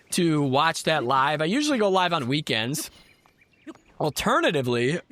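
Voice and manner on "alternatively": burping. Real, not acted. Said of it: "excuse me, I'm burping".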